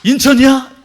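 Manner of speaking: loud, high astonished echo; astonished dad. Acted. Father hearing his child landed, loud astonished question. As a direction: blurt it out in shock. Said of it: "그럼 놀래, 안 놀래요?".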